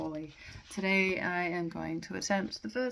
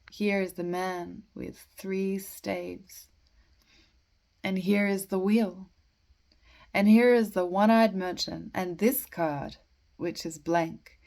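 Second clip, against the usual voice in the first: measured verse with pauses between phrases; poetry reading; 8 dB louder than usual. Acted. Amateur reading The Waste Land to listeners, measured poetry reading. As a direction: read verse deliberately, pausing at line breaks. Reads a poem aloud.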